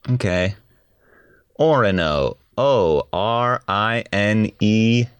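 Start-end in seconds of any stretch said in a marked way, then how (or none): 2.6-5.1 spelling it out. Real, not acted. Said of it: "spell the word".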